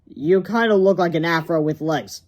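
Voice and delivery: a hint of a doubtful boy; lightly voiced kid. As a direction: tease him gently. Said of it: "said Harold".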